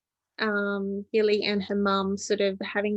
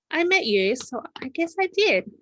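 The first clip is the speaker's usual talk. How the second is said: higher, louder, bright with delight; happy realisation; 8 semitones higher, 4 dB louder than usual. Acted. Joy tells Millie he found his adventure. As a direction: let the joy burst out.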